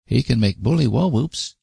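put-on high, wistful small boy; regretful boy. A narrator's reading. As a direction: say it a bit wistfully like a child. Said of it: "a little regretfully".

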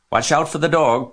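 high, loud warning; sheep crying out. A narrator's reading. Sheep warn fleeing Wilbur, crying out. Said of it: "cried the sheep".

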